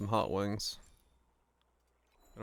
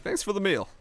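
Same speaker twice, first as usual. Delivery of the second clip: put-on much higher, cheery American-accented thanks; mock American thanks; 9 semitones higher, 3 dB louder than usual. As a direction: squeak it out like a tourist. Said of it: "Except in Finnish".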